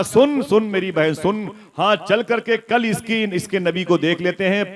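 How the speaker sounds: high, loud urging; insistent aunt. Retold or imitated. Aunt persuading her sister to go, insistent. Aunt's line repeated with force.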